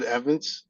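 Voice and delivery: "Evans" said like the plain name Evans, not the spelling. Shown as a demonstration. Agent gives his name to the podcast host, said as Evans. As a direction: say "Evans" the easy English way, no T or Z sound. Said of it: "but I pronounce it".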